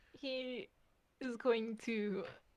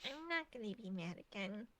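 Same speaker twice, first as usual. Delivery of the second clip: reassuring; 2 semitones higher, 9 dB quieter than usual. Acted. Fleck reassures the crying character.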